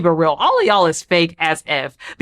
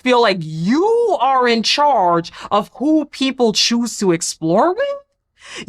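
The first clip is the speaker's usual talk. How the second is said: slow; slower than usual. Real, not acted. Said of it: "incredulous rant at Sierra".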